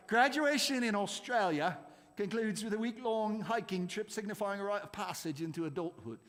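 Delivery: lightly put-on Australian accent; bad Australian accent. Quiz host reading the Australia question, bad Australian accent. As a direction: attempt an Australian accent, none too well. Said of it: "that was a very bad Australian accent".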